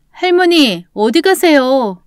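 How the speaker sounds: calling after someone. Acted. Roommate calling after grandmother as she leaves, concerned call.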